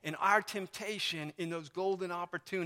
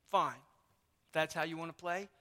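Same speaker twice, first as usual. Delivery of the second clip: snippy retort; 3 semitones lower than usual. Retold or imitated. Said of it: "which tone of voice she's getting back".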